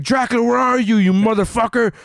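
mock Moon Knight yell. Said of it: "he's like".

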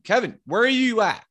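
high, drawn call up a hill; calling out, yelling. Retold or imitated. Hunter calls to his friend far up the hill, yelling. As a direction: holler for a missing friend. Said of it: "We're yelling".

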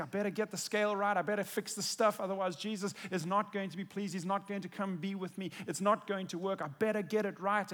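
a churchgoer fretting over pleasing Jesus, hurried and anxious; anxious self-talk. Retold or imitated. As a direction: rush it like someone desperate to get it right. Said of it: "we sometimes think".

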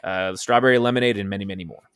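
upbeat sponsor read. Acted. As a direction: read it like a podcast ad. Reads a sponsor ad.

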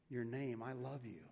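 gentle, hushed reassurance; soft voice of God. Shown as a demonstration. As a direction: speak it as God's tender answer. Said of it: "hear God saying".

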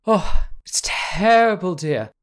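hammed-up grief, rising; distraught lady. Noblewoman grieves for her murdered father to the cousins, high loud wail. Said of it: "Constance takes your arm and says".

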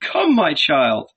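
tender motherly call. A narrator's reading. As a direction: coax your child gently. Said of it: "she said to him tenderly".

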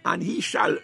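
"shall" said as a firm certainty; stress on "shall". Real, not acted. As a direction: lean firmly on "shall". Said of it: "not he may".

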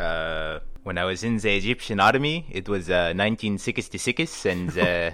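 put-on old Egyptian soldier in an Egyptian accent. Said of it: "it's Egyptian".

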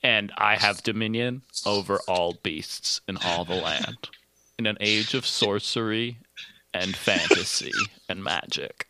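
deep creaky vocal fry. Shown as a demonstration. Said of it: "There it is".

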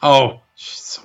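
breathy aside whisper. Real, not acted. Leaning in to the co-host, a hushed whisper.

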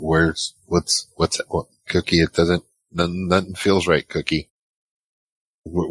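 겁에 질려 더듬는 목소리; panicked and confused. Acted. Panicked wounded player in character.

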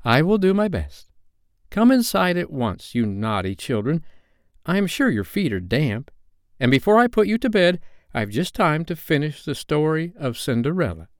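put-on high, motherly little girl; playing mother, high and fussing; Wendy's voice. A narrator's reading. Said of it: "she said".

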